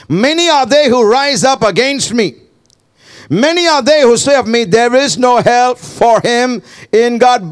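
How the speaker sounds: preacher building in intensity; impassioned preaching. Acted. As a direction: declaim the psalm with force. Preacher declaims the psalm.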